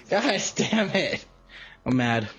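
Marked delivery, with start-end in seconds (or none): 0.1-1.2 stretched groan. Real, not acted. Stretched frustrated groan, laughing.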